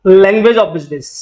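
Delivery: very slow, drawn out; slow recital. Shown as a demonstration. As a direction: drill the phrase back slowly. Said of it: "क्या लिखा होगा?".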